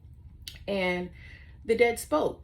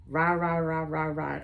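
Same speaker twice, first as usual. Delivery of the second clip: mock rah rah chatter. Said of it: "I don't know what she was saying".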